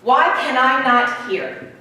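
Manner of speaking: slow, exasperated plea; dragged-out, emphatic frustration, falling away; frustrated. Acted. Boy who can't hear bells, frustrated plea. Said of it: "he's frustrated".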